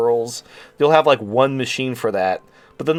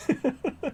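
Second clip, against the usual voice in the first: quiet, high giggle; laugh; 14 semitones higher, 9 dB quieter than usual. Real, not acted. Speaker amused at own sarcastic bit, quiet laughing. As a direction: giggle softly to yourself.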